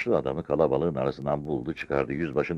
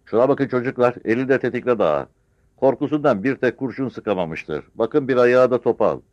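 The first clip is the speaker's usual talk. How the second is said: high, loud pointing-out; scornful village woman; 8 semitones higher, 6 dB louder than usual. Acted. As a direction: show the crowd with contempt. Old village woman mocks the dead bandit. (yüksek sesle alay eden yaşlı kadın)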